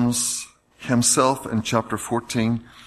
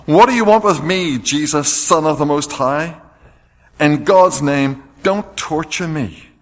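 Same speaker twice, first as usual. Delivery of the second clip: loud, raised cry of a tormented spirit; shouted plea; 5 semitones higher, 9 dB louder than usual. A narrator's reading. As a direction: cry it out at full voice, higher and much louder. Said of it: "shouted at the top of his voice".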